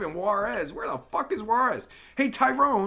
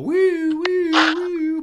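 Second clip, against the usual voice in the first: high, loud siren wail; long, high "woo" siren noises; mock siren; 9 semitones higher, 8 dB louder, much slower than usual. Playing a patrol siren.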